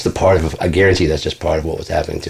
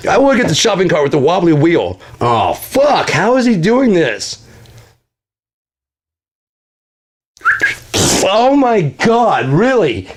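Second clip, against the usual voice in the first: whiny high victim voice; 9 semitones higher than usual. Retold or imitated. Mocking his cursed victim, a high whiny hammed-up complaint. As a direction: play the put-upon loser whining at bad luck.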